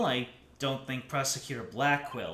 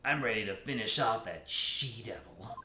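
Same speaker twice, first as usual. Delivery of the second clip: lower, slithering snake voice; 4 semitones lower, 4 dB quieter than usual. Acted. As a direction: speak like a sly snake. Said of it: "my snake voice".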